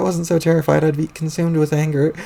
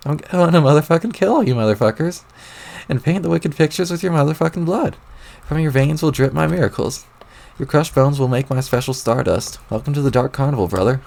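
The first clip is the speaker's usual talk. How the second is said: menacing clown killer. Acted. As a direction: savor every threat like a killer clown. Clown villain threatens victims.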